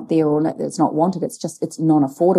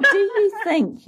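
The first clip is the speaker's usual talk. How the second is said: laughing. Real, not acted. Laughing while asking personal question.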